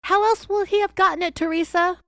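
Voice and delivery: high, loud, angry challenge; angry demand. Retold or imitated. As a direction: corner her with the question. Agent confronting her angrily.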